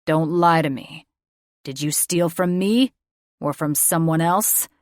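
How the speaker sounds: loud, hard father voice; angry accusation. A narrator's reading. Father accuses daughter of stealing, loud and angry. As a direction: hammer each question home.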